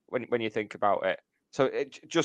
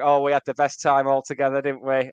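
lightly imitated mock-nostalgic sneer; a touch of sarcastic fake fondness; snarky; 4 dB louder than usual. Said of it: "Yeah, snarky".

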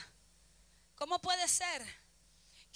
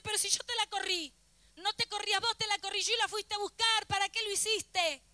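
higher-pitched protesting reproach; exasperated reproach; 4 semitones higher than usual. Acted. God reproaching the believer who comes back crying, exasperated.

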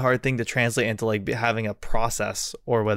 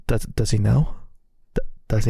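hesitant wondering. Retold or imitated. Retelling friends' stunned, hesitant wondering.

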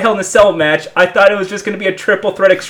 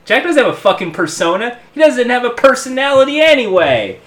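wrestling promo. Pretend. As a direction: call out your rival on the mic. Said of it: "I'm gonna cut a promo now".

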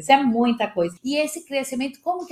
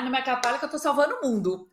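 playful laughing quote; 3 semitones higher, faster than usual. Retold or imitated. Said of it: "e assim, ai".

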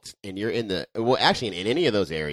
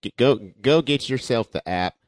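excited wrestling commentator, louder; Jim Ross impression; 3 semitones higher, 4 dB louder than usual. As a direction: sell it like a ringside announcer. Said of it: "That's my Jim Ross".

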